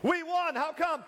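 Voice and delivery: very high-pitched, hammed-up wonder; acted high-voiced puzzlement; mock bewildered question. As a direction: squeak it out as a baffled winner. Acting out winners asking the same.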